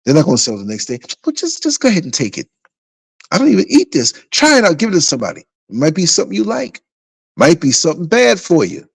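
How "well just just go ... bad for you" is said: lightly voiced worker, higher and quick at first; a hint of a pushy waiter offloading food; voicing the restaurant worker. Restaurant worker urging him to take the leftovers, lightly acted.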